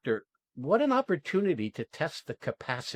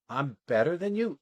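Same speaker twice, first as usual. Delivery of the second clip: "I'm better than you" echoed as a question; questioning repeat; 2 semitones higher than usual. Retold or imitated. Coach imitating the student's first response, questioning. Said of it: "you say it like a question".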